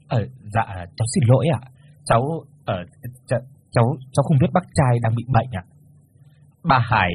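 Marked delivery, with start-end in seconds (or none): 0.1-5.6 stammering. Acted. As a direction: stumble over the apology. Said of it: "lắp bắp".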